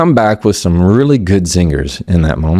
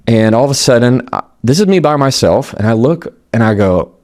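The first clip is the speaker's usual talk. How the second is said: normal talking voice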